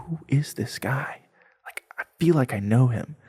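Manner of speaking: whispered private thought; hushed wonder. Retold or imitated. Narrator to himself about a familiar stranger, hushed wonder. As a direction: whisper it as if to yourself.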